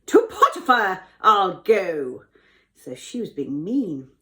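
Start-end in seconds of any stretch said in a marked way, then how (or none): 0.1-2.2 loud, declaimed cry. A narrator's reading. Wife vows to go to Potiphar, crying out loudly. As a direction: call it out with dramatic force. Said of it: "and then she cried".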